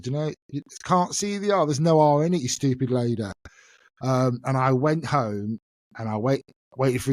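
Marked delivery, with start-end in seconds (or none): 0.0-3.2 high, cocky schoolgirl scorn; indignant retort. Retold or imitated. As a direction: sure she's the one who's wrong. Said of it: "I thought".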